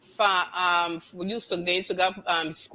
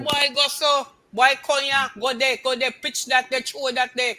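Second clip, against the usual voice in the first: Creole orders; 5 semitones higher than usual. Retold or imitated. Imitating Creole orders to a boy.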